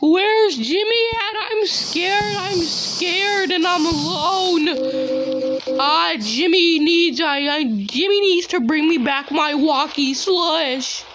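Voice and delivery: whimpering cartoon character voice; Carl Weezer. Carl alone asking for Jimmy, scared character voice. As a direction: play a scared, lonely cartoon kid.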